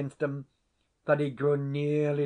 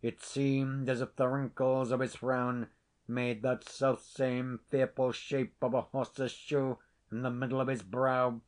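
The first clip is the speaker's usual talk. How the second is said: normal talking voice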